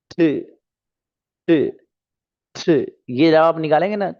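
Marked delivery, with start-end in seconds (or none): 0.1-2.8 थ said as a soft aspirated dental t. Shown as a demonstration. Teacher shows students the थ sound, aspirated. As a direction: breathe out on थ, tongue behind teeth. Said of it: "that is थ".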